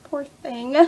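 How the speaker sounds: soft, drawn-out coo of sympathy; pitying. Retold or imitated. Viewer reacting to sad Zelena on screen, pitying. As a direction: coo with pity, slow and quiet. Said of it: "you could see she was sad. I was like".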